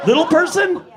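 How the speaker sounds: high, loud incredulous question; mock disbelief. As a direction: throw the term back, scandalised. Repeats crowd's term in disbelief.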